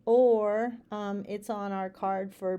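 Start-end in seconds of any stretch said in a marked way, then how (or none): 0.1-0.7 loud growling er like a bear. Shown as a demonstration. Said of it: "the three bears".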